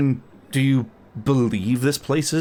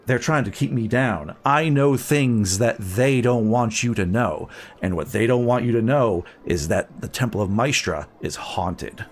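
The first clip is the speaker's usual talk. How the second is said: conspiratorial whisper; 2 semitones lower than usual. Acted. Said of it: "she begins speaking in thieves' cant".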